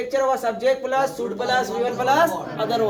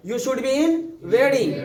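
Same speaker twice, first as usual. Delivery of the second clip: slow, careful example; teacher modelling slowly; slow model sentence; much slower than usual. Shown as a demonstration. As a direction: say it slowly so students can copy. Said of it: "कैसे बोलोगे?".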